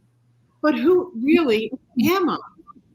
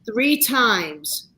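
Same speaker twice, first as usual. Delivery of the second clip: grandmother's blessing; much slower than usual. Retold or imitated. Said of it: "my grandmother left me with this".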